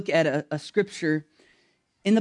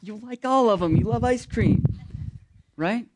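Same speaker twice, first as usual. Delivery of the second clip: God's reply; 2 semitones higher than usual. Pretend. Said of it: "God's just kinda quiet and like".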